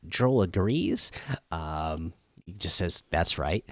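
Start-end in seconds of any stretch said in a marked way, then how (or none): 3.1-3.6 sarcastic. Retold or imitated. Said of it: "not with such a great tone. Pretty, like, sarcastic kind of tone".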